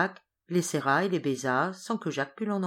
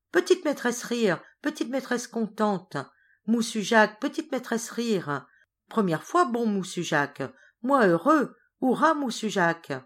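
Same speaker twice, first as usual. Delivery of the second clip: high, loud joyful crying out; jubilant cry; 6 semitones higher, 3 dB louder than usual. Acted. Ram cheers at seeing his mistress laugh, high and jubilant. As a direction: shout for joy as if leaping about. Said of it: "s'écria en sautant et en pirouettant".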